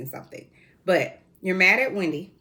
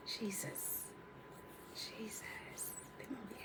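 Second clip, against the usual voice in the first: whispered, much softer jesus; exasperated whisper; 3 semitones higher, 24 dB quieter than usual. Real, not acted. Host whispers in frustration at her unruly shirt. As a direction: sigh it out under your breath.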